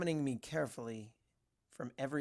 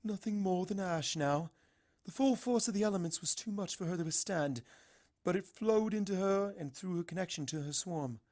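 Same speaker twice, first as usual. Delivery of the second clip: lightly voiced calm princess, a touch higher; Celestia, regal; 6 semitones higher than usual. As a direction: speak as a gentle, stately princess.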